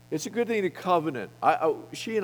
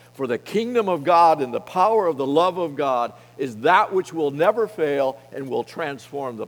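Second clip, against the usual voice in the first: louder preaching build; rally the men, louder each phrase; 4 dB louder than usual. Acted. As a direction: lay down repeated with rising force. Preaching climax, lay down.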